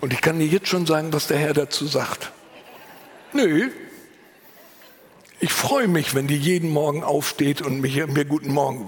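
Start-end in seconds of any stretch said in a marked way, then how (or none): 3.3-3.7 a short, loud, higher nö; God's blunt no. Retold or imitated. The Lord bluntly answers the complaining prayer, loud and short. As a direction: flatly refuse the complaint.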